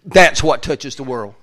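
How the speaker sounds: loud slow emphasis; preacher driving the point home. Shown as a demonstration. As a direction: proclaim it slow and strong. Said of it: "repeated louder, slow".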